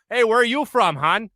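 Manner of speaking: light imitation of a Wisconsin accent. Lady at a Green Bay bar to an out-of-towner, lightly imitated Wisconsin accent. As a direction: lightly mimic a friendly Wisconsin local. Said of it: "hearing that accent talk about".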